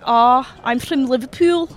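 demonstrated Liverpool accent; Scouse accent. Shown as a demonstration. Caller corrects host's accent, demonstrating Scouse. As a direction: show how Scouse sounds. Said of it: "It's more like".

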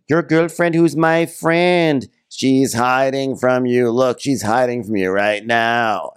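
slow, high, indignant retort; imitating an indignant comeback; acted quarrel. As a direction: argue back slowly, drawing the words out.

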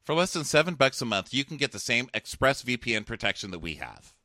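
scripted, persuasive sponsor read; podcast ad read. Real, not acted. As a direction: sell it with evenly stressed copy.

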